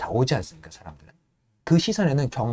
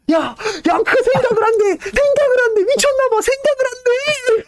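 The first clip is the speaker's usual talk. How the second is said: mocking jeer; 4 dB louder than usual. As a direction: squeal it out to ridicule him. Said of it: "막, 막 놀려대요".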